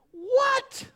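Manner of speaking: very high, loud squeal of disbelief; hammed-up astonished what; shocked what. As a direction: yelp it in disbelief. Incredulous Gideon reaction.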